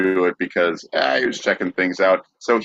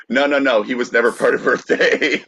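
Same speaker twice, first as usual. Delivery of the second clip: laughing mock quote; 4 semitones higher than usual. Mocking organizers laughing.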